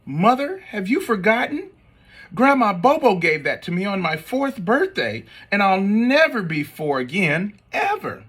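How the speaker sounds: put-on high, theatrical little boy plea; dramatic kid. Spencer lecturing mom about Grandma's gift, high dramatic whine. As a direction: ham up a child's grievance.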